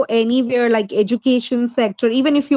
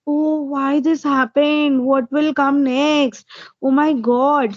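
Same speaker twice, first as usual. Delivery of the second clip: worried inner voice; 3 semitones higher, slower than usual. Retold or imitated. Tutor acting out her worried thoughts, slow and fretful. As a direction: voice her panicky thoughts, slowly. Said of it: "I say".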